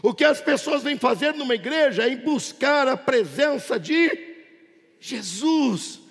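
projected, high-pitched sermon delivery; impassioned pulpit voice; fervent preaching. Real, not acted. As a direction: preach to the whole church, driving each phrase upward. Preaches to congregation at full force.

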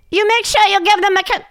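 put-on high, fast, heavy Asian accent as the pushy mom. Ex-wife leaving phone instructions about Mackenzie, heavy Asian accent impression. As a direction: mimic an Asian mother's accent, high and quick. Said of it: "Oh, she's Asian".

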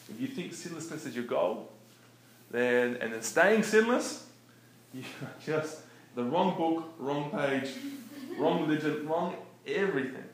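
preacher hammering each wrong word harder; fired-up preaching. Real, not acted. Preacher telling listeners sinlessness is the wrong goal, loud and fired up.

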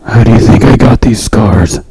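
Joker voice. Pretend. Joker quote, maxed out.

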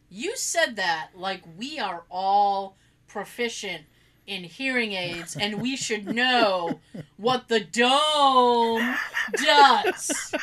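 slow, laboured, incredulous comeback; drawn-out mock reproach, building at the end; retold sarcasm. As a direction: spell it out with heavy sarcasm.

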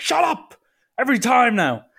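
high-pitched, exasperated mock shout; upset dad. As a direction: imitate a dad snapping at a heckler. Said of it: "my dad was so visibly upset".

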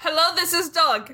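lightly voiced silly puppy; playful hint of a dog talking. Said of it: "we've started talking in the puppy's voice".

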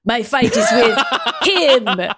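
slow, hammed-up Russian villain breaking into laughter; heavy Russian accent, drawn out; over-the-top Russian accent. A narrator's reading. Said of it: "over-the-top Russian accent".

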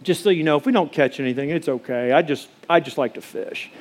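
softening into a gentle, easygoing pastor; nice pastor guy. Retold or imitated. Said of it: "I'm being like the nice pastor guy".

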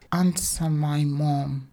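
put-on slow, breathy, carefully spoken little girl; every word placed perfectly; precise child's command. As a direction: daughter ordering her father. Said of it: "Zainab's elocution was perfect".

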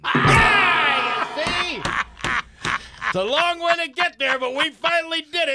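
high, loud victorious yelling; shouting in real glee at the punchline; triumphant shout. Real, not acted. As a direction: crow over the finished joke. Celebrating landing the joke.

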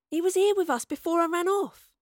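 high, agitated insistence; insistent. A narrator's reading. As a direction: press the point, pitch well up. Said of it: "insisted Astrid".

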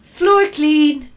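high, loud robotic announcement; robot cleaner. Acted. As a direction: report the job done as a proud little bot. Robot vacuum announces finished job.

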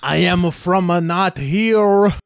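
hammed-up French accent, trailing off; mock French accent. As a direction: dodge the question in a bad French accent. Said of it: "we cannot place his accent".

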